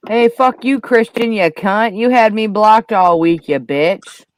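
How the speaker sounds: angry yell. Real, not acted. Yelling at blocker in chat.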